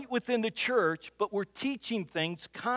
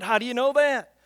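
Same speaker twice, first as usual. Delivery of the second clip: louder, higher insistent question; mock-indignant demand; insistent challenge; 4 semitones higher, 6 dB louder than usual. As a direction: press her like a doubting daughter. Retold debate with daughter.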